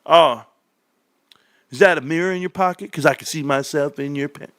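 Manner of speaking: cheesy pickup line. Retold or imitated. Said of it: "the worst pickup lines ever".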